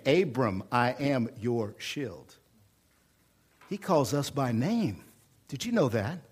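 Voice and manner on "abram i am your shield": gentle voice of God. Acted. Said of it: "he even calls Abram by name".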